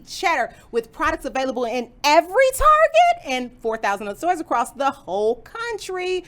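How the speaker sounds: energetic stream intro. Acted. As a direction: read it like a show intro. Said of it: "That's my intro voice".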